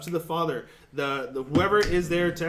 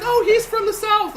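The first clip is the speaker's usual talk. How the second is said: high, louder, laughing imitation; mock friend's voice; 13 semitones higher, 6 dB louder than usual. Retelling the friend explaining the priest: high, laughing mock voice. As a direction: toss it off like the friend did. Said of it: "She's like".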